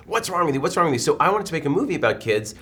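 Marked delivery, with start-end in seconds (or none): 0.1-1.0 high-pitched mock scolding; self-righteous. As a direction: mimic everyone's indignant chiding, quick and repetitive. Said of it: "self-righteous tone of voice of everybody going".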